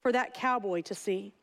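measured verse reading with falling line ends; poem reading. Acted. Coach reads cowboy poem to congregation, measured recitation. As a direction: recite it line by line, pausing between phrases.

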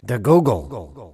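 put-on slow, croaky old man saying The Google; old man's The Google. Cohost echoes the podcast's old man sample, slow and croaky. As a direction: drag out The Google like a grandpa. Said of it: "an elderly man saying".

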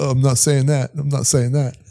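lightly put-on American accent; a hint of American accent in a retold denial; Bill Clinton. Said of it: "That's how you do an accent".

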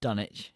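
"Dunwich" said as Dunnich, no w; northern pronunciation. Shown as a demonstration. Co-host shows how northerners say it, "Dunwich" as Dunnich. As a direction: say "Dunwich" the northern way, DUN-itch. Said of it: "if you're down up north".

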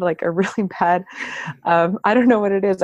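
wheezy laugh from a chest cold. Real, not acted. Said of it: "if I sound like I'm wheezing".

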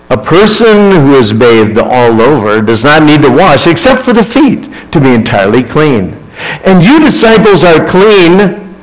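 calm. Acted. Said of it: "again calmly, responded".

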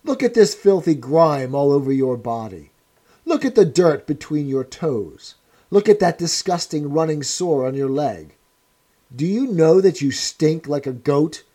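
a hard interrogator sneering at a wreck; stern interrogator. Acted. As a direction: press the prisoner's ruin on him. O'Brien berating Winston.

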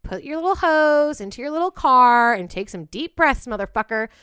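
loud, high, sneering outrage; angry mocking rant. Host mocking the murderer, loud and furious. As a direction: jeer at him, furious.

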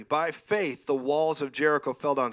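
preached scripture, emphatic; scripture reading. Acted. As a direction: read the verse like a preacher.

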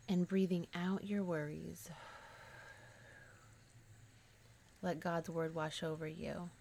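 measured meditation guiding, long pauses between phrases; guided meditation. Real, not acted. Host guides listeners to release worries, paced meditation. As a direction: guide listeners gently through letting go, leaving space.

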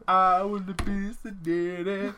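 put-on high, slow, loud little-kid voice; toddler voice. Little Gage talking, high childish voice. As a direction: babble it like a toddler. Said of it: "He's like".

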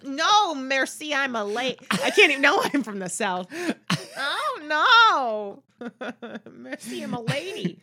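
high, laughing fake French accent of the nanny; Fran Drescher bad French accent. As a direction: play the nanny mangling French, giggling. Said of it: "The nanny trying to do a French accent".

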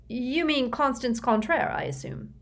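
a suspicious boss pouncing on a name; a self-satisfied executive interrogating the boy; Mister Curtin's voice. Acted.

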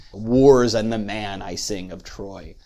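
"Wars and the man I sing of Troy", slow and loud with weight on "Wars" and "man"; dactylic cadence. Shown as a demonstration. Lecturer quoting the Aeneid's first line, dactylic cadence. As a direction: declaim "Wars and the man" in stately threes. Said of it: "there's a dactylic cadence".

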